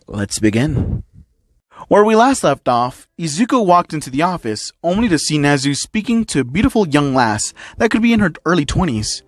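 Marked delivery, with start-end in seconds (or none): 1.9-9.2 story narration. A narrator's reading. Narrator recapping last episode for listeners, storytelling. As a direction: narrate the recap with lively pitch movement.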